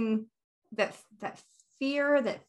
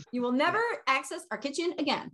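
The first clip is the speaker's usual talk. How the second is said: mock-stern, higher pronouncement; laying down the law; 4 semitones higher than usual. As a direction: hand down a playful parental ban. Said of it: "Lay down the law".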